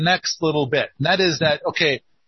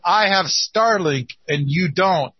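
taunting. Pretend. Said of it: "I get to say".

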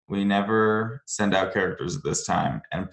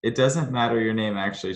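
Mickey Mouse voice; 2 semitones higher than usual. Acted. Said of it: "chuckled Mickey".

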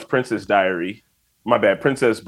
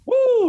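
high-pitched imitated cheer; excited whoop. Re-enacting his in-the-moment Game of Thrones hype, excited whoop. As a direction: let out a high hyped-up woo. Retells hype during episode.

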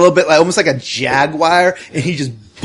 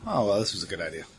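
sarcastic; 7 semitones lower, 15 dB quieter, faster than usual. Acted.

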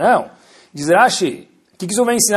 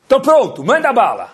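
hyped-up eager youth voice, higher and louder; wired; 8 semitones higher, 4 dB louder than usual. Retold or imitated. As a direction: burst out raring to go, like too much caffeine. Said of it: "O que é que tá pilhado?".

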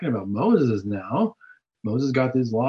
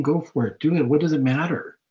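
coaxing, goading devil, a bit higher and quickening at the end; the devil tempting; 3 semitones higher than usual. Retold or imitated. The devil cheering a sinner on, goading. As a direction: egg the listener on like a tempter. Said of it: "He's saying".

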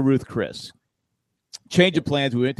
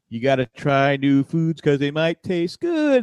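teacher; slower than usual. Retold or imitated. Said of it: "the teacher goes".

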